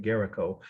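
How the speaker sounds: "Géricault" in French, no final t; French pronunciation. Shown as a demonstration. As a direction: say "Géricault" the French way, ending on koh. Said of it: "is how French speakers would say it".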